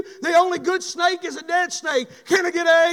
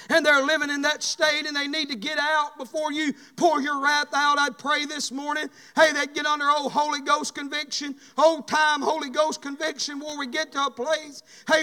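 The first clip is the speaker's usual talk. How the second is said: fervent prayer; 2 semitones lower than usual. Acted. Pastor praying aloud over his church before the sermon, fervent prayer. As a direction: pray over the congregation, pleading.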